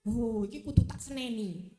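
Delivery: loud mock indignation; acted indignant inner voice; subconscious urge to scold. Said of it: "bawah sadar kita akan ngomong".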